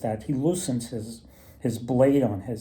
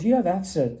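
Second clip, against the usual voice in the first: much higher, eager yes; greedy woodsman; 7 semitones higher than usual. Retold or imitated. Greedy woodsman lies to the elf, high and eager. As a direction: grab at the lie, pitched way up.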